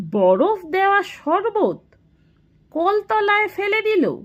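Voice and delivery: high-pitched incredulous echo; stunned disbelief. A narrator's reading. Shachinath echoes Fatik about the wasted sherbet, stunned disbelief. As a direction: repeat the news in astonishment.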